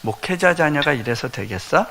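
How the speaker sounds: 목회자 stressed, rising scold; mock reproach. Pastor mimics church elders nagging a pastor's child, reproachful. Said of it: "우리가 자칫하면요".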